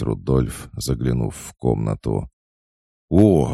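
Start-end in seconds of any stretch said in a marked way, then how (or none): 3.1-3.5 loud, high happy cry; light up with joy; delighted exclamation. A narrator's reading. Tolik delighted to see Ruth arrive. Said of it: "обрадовался Толик".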